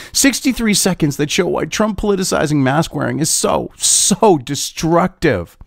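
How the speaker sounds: lightly mocking soy boy read; Chris Cillizza. YouTuber reading out a headline as Cillizza, lightly mocking. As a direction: draw out "so" in mock dismay. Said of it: "because Cillizza talks like this".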